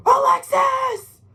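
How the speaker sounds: long, high, loud cries; dad screaming her name. Retold or imitated. Dying father calling his daughter, loud, high and drawn out. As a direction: call out the name slowly, in full alarm. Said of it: "screams out".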